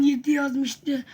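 rough, strained hoarse voice; talking through a sore, hoarse throat. Real, not acted. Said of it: "Bu arada sesim kısık".

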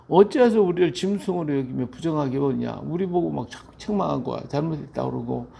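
exasperated mock scolding; retold telling-off, lively rising bursts; acted rebuke. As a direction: voice an accuser's indignant reproach. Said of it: "막 책망하고 있는 거예요".

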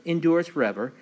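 emphatic liturgical recitation, rising and falling; psalm reading. Acted. Pastor opening Bible study with the introit, emphatic psalm reading. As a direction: read scripture out to the congregation in measured phrases.

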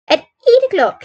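high-pitched, agitated woman. A narrator's reading. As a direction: answer high, holding down agitation. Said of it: "gulping in her throat to keep down her agitation".

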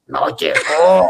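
slow, drawn-out anguished "no llegó". Retold or imitated. Imitated bride telling the planner, slow and stricken. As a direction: let the news land slowly, stricken. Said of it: "con una cara de angustia".

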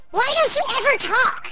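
squeaky chipmunk-pitched question; high-pitched squirrel voice. Real, not acted. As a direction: ask it in a little Alvin voice. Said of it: "I went really high pitched there".

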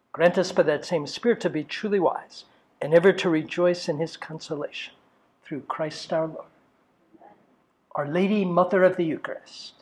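softly recited prayer, falling away at line ends; opening prayer. Real, not acted. Priest opening a talk with the group, quiet recited prayer. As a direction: pray it quietly, in measured phrases.

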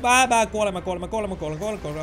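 dramatic dying wail fading out; mock dying. Gamer hamming up his character's death, fading out. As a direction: ham up the death.

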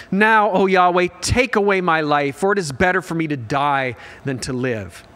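loud, overwrought cry to God; dramatic plea. Acted. Jonah begging God to end his life, loudly overwrought. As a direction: read it like a melodramatic wish to die. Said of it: "Like, talk about drama here".

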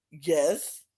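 low, curt irritated yes; eye-rolling annoyance. Retold or imitated. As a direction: answer dropped in pitch, fed up. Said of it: "Carolyn rolls her eyes and look at him".

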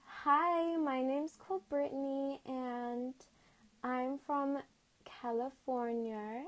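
playful American accent demo, lifted pitch. Shown as a demonstration. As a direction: put on your best American accent. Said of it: "Do your best American accent".

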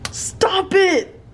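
half-whispered yell. Real, not acted. Playful protest while whispering.

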